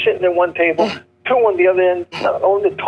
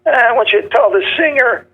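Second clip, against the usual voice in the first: lightly rough-throated tough guy, pitched up; imitating a no-neck mob guy, a hint of raspy throat; a light impression of a mobster's throaty voice; mobster with a bad throat; 6 semitones higher than usual. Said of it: "like they had a bad throat".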